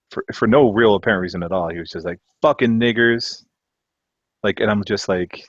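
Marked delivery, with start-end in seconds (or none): 2.4-3.4 loud, drawn-out yell, pitched up; retold drunken yell. Drunk friend yelling at a passing car, retold loud yell.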